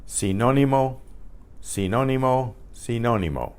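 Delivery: Sinónimo at natural speed, see-NO-nee-mo; teacher drills Sinónimo for the learner; Spanish pronunciation demo. Shown as a demonstration. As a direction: repeat Sinónimo in a row, stress on NO. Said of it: "Say it to yourself".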